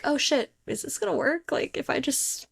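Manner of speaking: self-doubt. Retold or imitated. Practitioner back after a break from practice, imitated self-doubt. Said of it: "I've had the self-doubt too".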